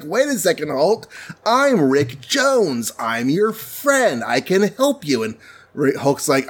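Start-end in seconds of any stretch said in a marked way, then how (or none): 0.0-5.2 lightly voiced young sidekick, pitched higher, slowing on his name; a bit higher and earnest, introducing himself to the Hulk; eager Rick Jones. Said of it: "The guy in the car is like".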